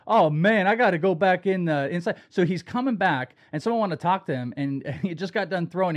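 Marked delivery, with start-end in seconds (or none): 0.1-2.2 imitating a ballplayer, a bit louder; playful mimicry of a player's complaint; Blake Snell impression. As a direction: put on the pitcher's way of talking. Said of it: "he talked like this yesterday".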